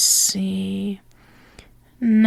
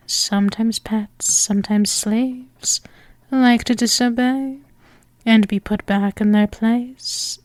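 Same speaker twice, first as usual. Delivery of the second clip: sultry domme ASMR. Acted. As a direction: lull the listener into obeying. Hypnotic domme roleplay.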